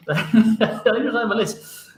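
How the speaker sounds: slow laughing repeat; laughing it back. Real, not acted. Laughing echo of joke.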